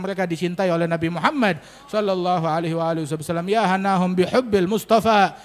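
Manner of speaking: earnest closing prayer to the congregation. Acted. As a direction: pray over them, steady and fervent. (doa penutup yang khusyuk)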